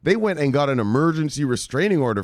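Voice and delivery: half-laughing outburst; amused shout. Real, not acted. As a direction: blurt it out in amazement. Laughing disbelief at SEC.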